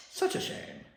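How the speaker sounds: whispered mock Doctor line. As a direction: whisper "Such a shame" with relish. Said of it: "I love the way he does that line".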